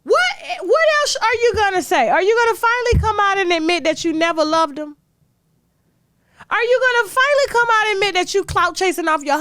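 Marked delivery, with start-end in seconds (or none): 0.0-3.8 incredulous outburst. Real, not acted. Ranting at memoir author.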